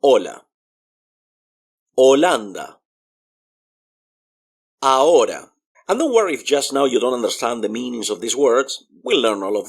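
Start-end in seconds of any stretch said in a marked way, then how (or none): 0.0-5.5 Hola, Holanda, Ahora with no h sound; "OH-la, oh-LAN-da, ah-OH-ra" for Hola, Holanda, Ahora; silent H. Shown as a demonstration. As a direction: model each word loudly, dropping the h. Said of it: "as if the H is not there".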